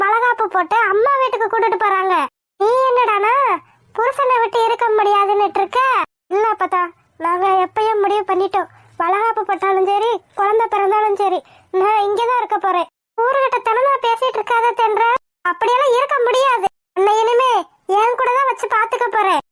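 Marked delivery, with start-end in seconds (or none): 2.6-5.8 a tearful grandmother pleading with her granddaughter. Acted. 13.2-19.4 crying as she insists; a grandmother insisting through tears that she will care for her; tearful insistence. Acted.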